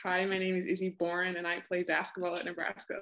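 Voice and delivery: Australian speaker doing a relaxed American accent; American accent, kept chilled out and not overdone. Shown as a demonstration. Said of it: "What's your American accent?".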